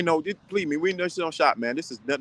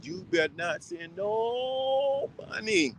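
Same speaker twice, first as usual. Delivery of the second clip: stern warning; 5 semitones higher, 5 dB quieter, slower than usual. Retold or imitated. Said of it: "I say this to my son".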